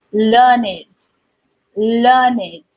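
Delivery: learned said learn-id; learned as two syllables. Shown as a demonstration. Teacher showing pupils the adjective learned, learn-id. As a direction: sound learned with id ending. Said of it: "this can be a bit tricky".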